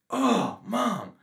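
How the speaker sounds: high whiny plea to mom; impression of a friend. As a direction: whine it like a kid to mom. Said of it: "you'll know".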